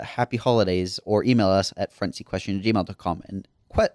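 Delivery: ordinary talk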